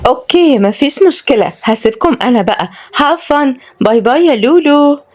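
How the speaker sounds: high, singsong coquettish woman; breezy flirt taking her leave; flirty goodbye. Acted. Flirty lady says a coy goodbye.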